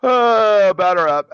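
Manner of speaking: high, loud, breezy batter up; mock careless umpire. Umpire after being overturned, loud and breezy. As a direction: toss it off like a bored ump. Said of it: "Now they're like".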